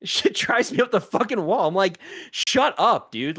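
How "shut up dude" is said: exasperated shut up. Retold or imitated. Annoyed retort to Tesla owners.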